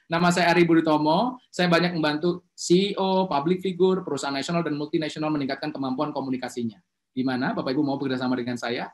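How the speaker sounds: calm, assured pitch of your credentials; confident self-introduction. Shown as a demonstration. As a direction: present yourself like a sought-after expert. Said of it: "Kalau saya kenalan bisa gini".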